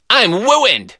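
"wooined" high with w for r; says w for r. Retold or imitated. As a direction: toddler "I'm wooined". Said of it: "He sounded like Elmer Fudd".

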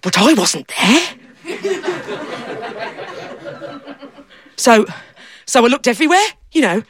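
a lightly voiced simple fella, eager and proud; daft fella. Storyteller playing the fella who lost himself, lightly voiced. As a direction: speak as the muddled daft man, pleased with himself.

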